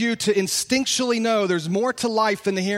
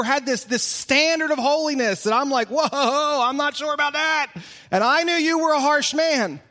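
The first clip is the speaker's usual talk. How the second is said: high, raised, pleading voice of a frightened servant; 6 semitones higher than usual. Acted. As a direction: plead with the master, voice climbing. Pastor voicing fearful servant to master.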